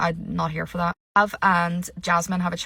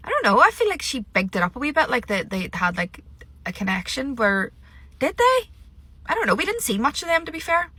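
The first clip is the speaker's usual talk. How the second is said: sceptical sing-song; 6 semitones higher than usual. Real, not acted. Doubting Olivia's claim.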